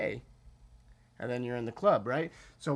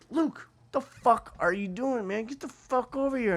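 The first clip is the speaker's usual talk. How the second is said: higher, louder, slow exasperated call; 8 semitones higher, 3 dB louder than usual. Retold or imitated. Narrator calling Luke back from the table, loud exasperated. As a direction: haul your friend back.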